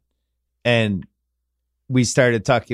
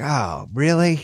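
mock dread; slower than usual. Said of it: "you'd be like".

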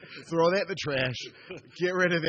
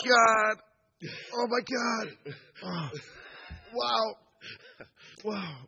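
choking on tear gas; 4 semitones higher, much slower than usual. Real, not acted. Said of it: "My eyes are on fire".

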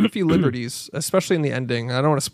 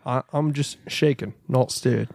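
Pierce Brosnan; 3 semitones lower, 4 dB quieter than usual. Acted. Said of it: "Do a Pierce Brosnan James Bond".

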